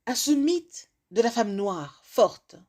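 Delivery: measured recitation with long pauses; spoken-word poem. Acted. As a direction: deliver it as a rhymed address, phrase by phrase. Recites a written rhyming piece.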